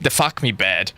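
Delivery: "bad" for bird in a light Australian accent, flat vowel. Shown as a demonstration. Streamer naming his made-up bird, light Australian accent. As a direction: slip into an Aussie accent on "the fuck me bad". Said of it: "makes me go back to Australian accent".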